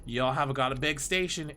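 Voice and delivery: put-on first try at a country bumpkin accent; tentative bumpkin accent. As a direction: test out a light bumpkin twang. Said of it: "like, bumpkin accent".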